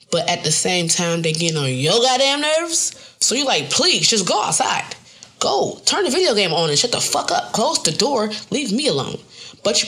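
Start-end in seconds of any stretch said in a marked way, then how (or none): 3.7-9.2 exasperated pleading. Retold or imitated. Begging annoyed kid to leave.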